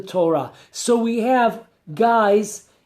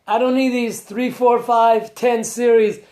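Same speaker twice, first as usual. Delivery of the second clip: impatient youngster; 3 semitones higher than usual. Retold or imitated. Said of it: "the generation of the quick".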